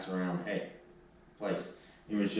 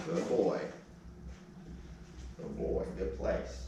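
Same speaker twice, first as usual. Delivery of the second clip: whispered praise; 4 semitones lower, 7 dB quieter than usual. Real, not acted. Praising calm dog on bed.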